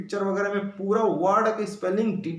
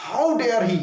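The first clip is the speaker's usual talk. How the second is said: sharp, louder how dare he; a bit angry; 4 dB louder, much slower than usual. Shown as a demonstration. Teacher demoing a mild angry retort. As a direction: scold with narrowed eyes. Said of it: "थोड़ा क्रोधित होकर के".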